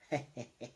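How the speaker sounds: soft, put-on villain laugh; villain chuckle. Villain by the boat awaiting the second drip, mock sinister chuckle. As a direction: chuckle quietly like a scheming bad guy.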